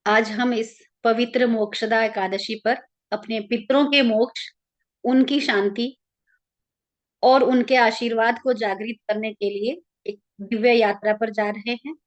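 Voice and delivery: calm, even meditation guide with long pauses; guided meditation. Real, not acted. Leading listeners into an Ekadashi meditation for their ancestors, calm guided-meditation voice.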